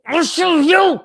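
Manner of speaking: high defiant squeal; hammed-up high comeback; mock defiant retort. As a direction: pitch way up in mock challenge. Acted retort to condescending Brit.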